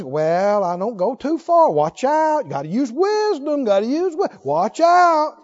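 nagging naysayer imitation, pitch creeping up; mock cautioning. Preacher mimicking believers who dampen others' vision, mock cautioning. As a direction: parody a wary discourager, climbing to the last warning. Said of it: "your little subtle things".

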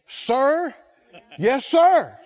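barked military reply; drill sergeant. Acted. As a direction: answer like a recruit to a drill sergeant.

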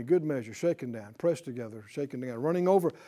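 trailing off softly. Shown as a demonstration. Trailing off quoting scripture.

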